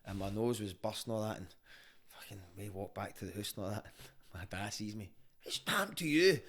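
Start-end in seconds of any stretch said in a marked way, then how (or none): 5.4-6.4 dad's voice. Retold or imitated. Dad sees beaten son.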